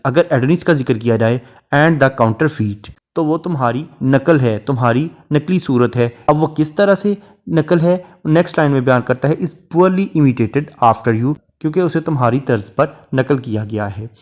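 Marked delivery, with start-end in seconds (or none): 1.7-2.9 slow, measured reading of a verse line; poetry recitation. Shown as a demonstration. Teacher reciting a Shakespeare sonnet line to students, slow and measured. Teacher quotes run-on example. 9.4-11.4 slow, measured reading of a verse line; poetry recitation. Shown as a demonstration. Teacher reciting a Shakespeare sonnet line to students, slow and measured. Teacher quotes run-on example.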